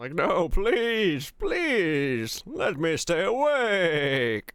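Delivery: high, swooping, bleating goat-like voice. Acting out being sent back to bed, the speaker pleads in a goat-like voice. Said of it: "Why do I sound like a goat?".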